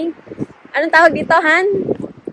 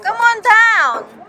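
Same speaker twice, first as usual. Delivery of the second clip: calling out; 8 semitones higher, much slower than usual. Real, not acted. Calling son at playground.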